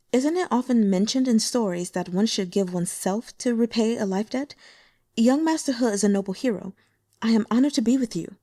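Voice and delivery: lightly voiced demure young woman, teasing hurt; Xu Yanyan voiced.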